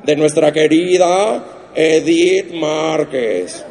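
slow, mock-solemn condolence; mock solemn reporter. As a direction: drag out a fake somber announcement. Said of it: "un periodista de espectáculos dijo".

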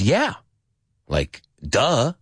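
a mild "well, duh" delivery; obvious, like duh. Acted. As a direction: answer as if it's painfully obvious. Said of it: "it's like, obviously".

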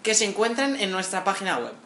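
lightly voiced cabin crew announcement; flight attendant voice. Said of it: "podemos poner voz de azafata".

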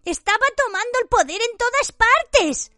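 high, broken, breathless plea; halting. A narrator's reading. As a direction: stammer it out in fear. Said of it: "dijo Pettigrew entrecortadamente".

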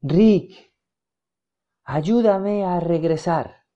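slow, fading spectral plea; words dissolving as they leave; faint ghostly voice. A narrator's reading. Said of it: "Las palabras se desvanecieron".

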